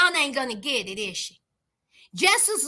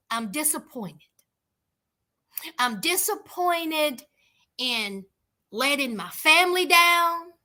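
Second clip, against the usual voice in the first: disappointed. Retold or imitated. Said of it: "Then she says".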